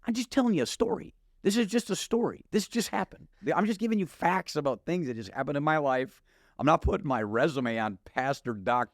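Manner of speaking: high, insistent protest; pleading that it's only a story; defensive. Retold or imitated. Defending himself to annoyed wife.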